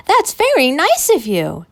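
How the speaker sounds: a hint of a tiny eerie voice from under the cloth; small voice from the basket. A narrator's reading. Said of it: "a small voice said".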